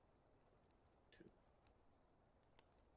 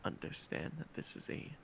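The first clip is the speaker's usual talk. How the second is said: ASMR whisper. Shown as a demonstration. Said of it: "talking like this".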